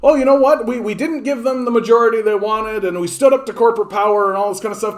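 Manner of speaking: a hint of a smug centrist; mock optimist. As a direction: pretend to be upbeat about it. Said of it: "perspective of being like".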